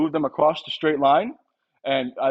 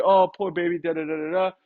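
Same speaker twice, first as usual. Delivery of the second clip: sympathetic; 3 semitones higher than usual. Retold or imitated. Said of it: "You're gonna say".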